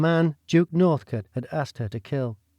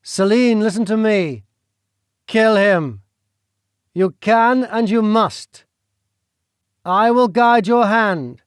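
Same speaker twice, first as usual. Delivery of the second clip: a menacing nobleman, pitched up and pressing hard; scheming duke; 6 semitones higher, 6 dB louder than usual. Acted. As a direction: lean in and push her to the deed. Duke presses Celine again.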